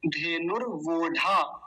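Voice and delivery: धेनुर्वोढा with र sounded before वो; r sounded first. Shown as a demonstration. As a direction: close नुर् on the r, then वोढा. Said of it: "ये पहले आ जाएगा". (धेनुर्वोढा में र पहले बोलकर)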